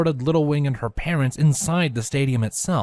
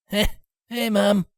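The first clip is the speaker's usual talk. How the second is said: Spitfire voice; 9 semitones higher than usual. Acted.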